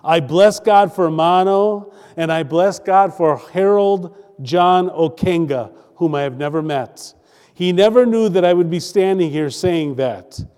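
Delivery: deliberate phrases with weighted pauses; preached testimony reading. A narrator's reading. Preacher reading a testimony to the congregation, in measured pulpit delivery. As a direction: read it out as pulpit oratory.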